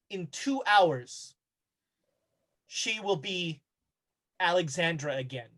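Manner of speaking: measured and ominous, leaving long pauses; Nitocris. Acted. Game master plays Nitocris decreeing Alexandra's return, slow solemn command. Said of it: "and says".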